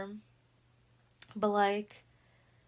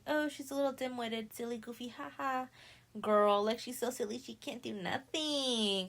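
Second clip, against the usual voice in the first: mock cutesy condescension; 3 semitones higher than usual. Mimicking girls fondly mocking silly Susie.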